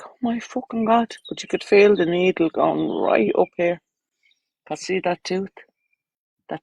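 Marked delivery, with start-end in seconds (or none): 0.0-1.2 breathy retold whisper of shock; whispered swear. Telling the dentist story, a whispered oh my God. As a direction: hush it like you're in the dentist chair.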